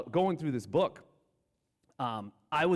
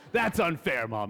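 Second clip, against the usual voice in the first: whiny protest; 5 dB louder than usual. Retold or imitated. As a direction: complain like a kid wronged by mom. Child protesting to mom.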